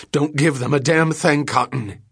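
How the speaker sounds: high, loud, breathless defiance; desperate shout. Acted. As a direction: yell it out between gasps. Captive woman defies her torturer.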